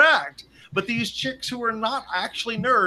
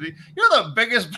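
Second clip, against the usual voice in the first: slow, louder, badly faked Irish accent; drunk Irish accent; 3 semitones higher, 5 dB louder, slower than usual. Drunk Irish stranger cussing out a visitor, clumsy Irish accent. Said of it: "I can't do the accent".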